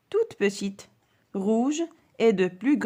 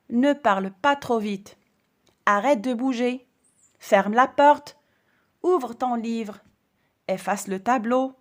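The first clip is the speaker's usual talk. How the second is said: commanding orders; 2 semitones higher, 4 dB louder than usual. Shown as a demonstration. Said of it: "Ce sont des ordres".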